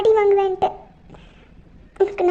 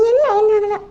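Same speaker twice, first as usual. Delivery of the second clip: sobbing self-blame; 2 semitones higher, 4 dB louder than usual. Acted. Friend blames herself, sobbing.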